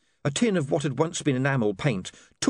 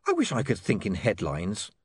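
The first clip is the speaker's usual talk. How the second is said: shivering; 3 semitones lower than usual. Acted. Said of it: "said William, shivering".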